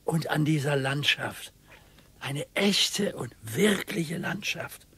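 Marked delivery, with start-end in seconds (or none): 2.2-4.8 slow whisper. Acted. Husband savours countryside on walk.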